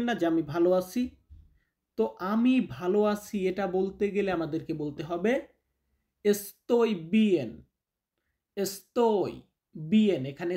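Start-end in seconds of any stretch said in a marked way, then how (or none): 6.2-10.3 very slow, word by word; slow teaching model. Shown as a demonstration. Teacher drilling students, very slow word by word. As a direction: break it apart for students to follow. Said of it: "teacher models phrase".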